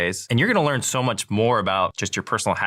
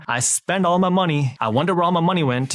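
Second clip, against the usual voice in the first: higher and louder, hammed-up clueless spender; mock careless spender; 9 semitones higher, 4 dB louder than usual. Host mocking Americans who spend everything, hammed-up and higher. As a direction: poke fun at the broke spender's airy whine.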